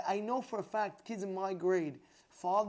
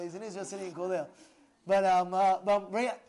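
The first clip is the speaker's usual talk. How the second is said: ordinary talk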